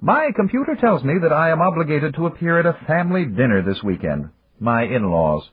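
high, measured executive voice; Japanese businessman voice. Acted. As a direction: voice him high and formal. Yamagata speaking in story.

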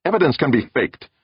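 high-pitched scornful dismissal; sniffy. A narrator's reading. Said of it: "Meek sniffed".

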